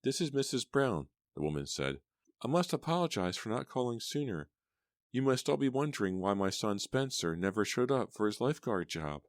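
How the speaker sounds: high, strained woman's voice on the phone; a distraught mother holding herself together; stressed mother. A narrator's reading. Mother calling the club about her son, high and strained. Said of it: "she was very stressed out".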